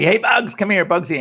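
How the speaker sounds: high, bright call to a pet cat. Retold or imitated. Owner in the kitchen calls her big cat over, high coaxing call.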